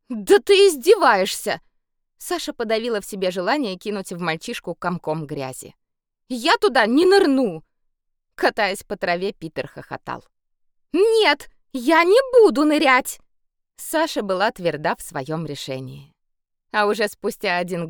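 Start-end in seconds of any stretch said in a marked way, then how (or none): 0.1-1.6 loud indignant protest; outraged. A narrator's reading. Sasha protesting at the teasing boy, loud outrage. 6.3-7.6 loud stubborn refusal; refusing. A narrator's reading. Sasha refusing to dive in the mud, loud stubborn no. 10.9-13.2 high, loud flat refusal; firm shout. A narrator's reading. Sasha yelling at Peter she won't dive, loud firm refusal.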